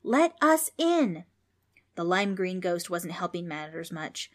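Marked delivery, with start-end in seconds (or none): 0.0-1.2 slow, loud, high bellow; demanding shout. A narrator's reading. Demons demand to be let in, bellowing slowly. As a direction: stretch out each word as a demand. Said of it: "demanding to be let in".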